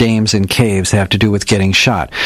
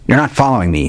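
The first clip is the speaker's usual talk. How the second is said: intoned; 5 semitones higher than usual. Acted. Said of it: "he intoned".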